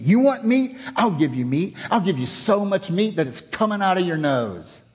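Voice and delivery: angry John. Shown as a demonstration. Preacher acting out angry John to congregation, exasperated. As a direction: throw it at them in disgust. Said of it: "angry John would, would have said it that way".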